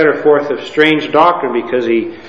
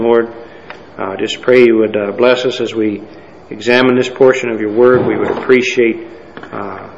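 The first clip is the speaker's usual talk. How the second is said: subdued, lower-key prayer, softening to the amen; spoken prayer; 3 semitones lower than usual. Real, not acted. Preacher asks God's blessing on the study, in subdued prayer. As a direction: pray simply, letting the voice sink at the close. Leads a prayer before the sermon.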